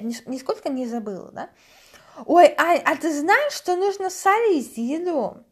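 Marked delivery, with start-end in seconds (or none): 2.2-5.4 бабушкин голос шепеляво, «знаешь» с шипящим «ш» вместо «с»; высоко и громко, с шепелявым «с» как «ш»; шепелявя. Retold or imitated. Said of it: "когда я шепелявлю". (бабушка учит солить еду, шепеляво и высоко)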